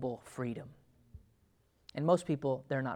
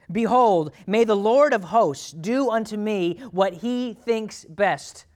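loud, raised angelic-style declaration; grand proclamation to God; 6 semitones higher, 8 dB louder, slower than usual. Acted. Believer submitting to the Lord of hosts, grand proclamation. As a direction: proclaim it slowly and forcefully. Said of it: "talked that way to the Lord".

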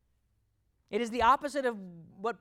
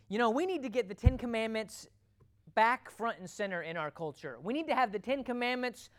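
earnest culture complainer; 3 semitones higher than usual. Retold or imitated. Preacher mimicking people who want commandments posted, lightly earnest complaint. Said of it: "people talk like this".

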